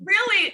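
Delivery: Really punched high and loud; emphatic really. Real, not acted. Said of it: "You mean really sharp and tangy?".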